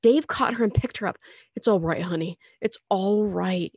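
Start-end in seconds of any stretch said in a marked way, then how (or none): 1.6-3.7 put-on gentle soothing murmur to a child; a touch of a father's murmur. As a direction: rock her calm with your voice. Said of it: "he murmured".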